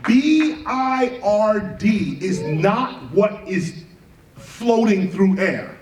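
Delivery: each letter laid out slowly; slow spelled out. Shown as a demonstration. Teacher spelling B I R D slowly for the crowd. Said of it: "let me say it again".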